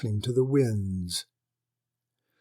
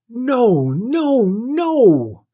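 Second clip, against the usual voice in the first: much higher, loud furious nos; shrieking refusal; 11 semitones higher, 9 dB louder, much slower than usual. Acted. Lady shrieking at the lord over the bride. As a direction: shriek it in outrage.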